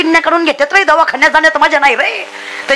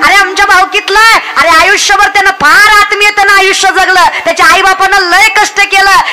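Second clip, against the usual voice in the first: अभिमानाने ओरडून कौतुक. Acted. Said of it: "सांग ना जगाला ओरडून". (जगाला ओरडून सांगत केलेलं कौतुक)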